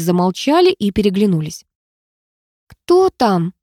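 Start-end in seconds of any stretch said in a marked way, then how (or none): 2.7-3.5 small, thin voice asking timidly; thin little voice. A narrator's reading. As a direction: ask it in a tiny thin voice. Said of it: "тоненьким голоском спросила я".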